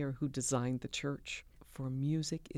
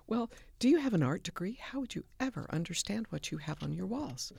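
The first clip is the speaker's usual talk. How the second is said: rhetorical challenge; 5 semitones higher, faster than usual. Retold or imitated. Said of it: "my comment to people like that always is".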